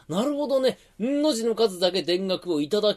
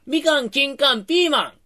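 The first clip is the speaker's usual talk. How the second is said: triumphant announcement; 8 semitones higher, 5 dB louder than usual. Acted. Announcing his word.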